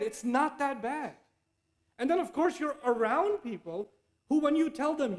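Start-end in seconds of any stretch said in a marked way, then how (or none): 0.0-1.2 slow, self-soothing excuse; a mild rationalising murmur; inner excuse. Retold or imitated. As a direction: talk yourself into it, slowly. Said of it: "In your head".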